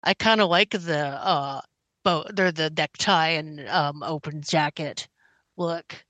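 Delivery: muffled, cat pressed against face. Real, not acted. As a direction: talk through a cat's fur, muffled. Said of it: "Sorry, if I'm muffled".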